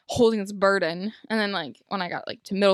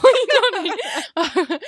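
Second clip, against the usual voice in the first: high laugh breaking through the words; slow laughing question; 12 semitones higher, 5 dB louder, much slower than usual. Real, not acted. Laughing mid-story.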